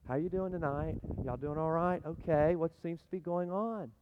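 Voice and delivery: casual, easygoing greeting in mild imitation; unhurried paramedic. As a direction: play the unbothered medic checking in. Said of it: "This is how they come in".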